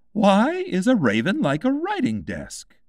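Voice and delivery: a mad hatter posing a riddle; lightly voiced eccentric Hatter. A narrator's reading.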